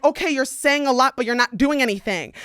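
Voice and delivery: retold taunt. Calling out the guy who only talks, taunting. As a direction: needle him as you retell it.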